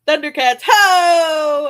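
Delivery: put-on high, loud drunken bar yell; drunk girl shout. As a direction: belt it like a tipsy girl at a bar. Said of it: "You sound like a drunk girl at a bar".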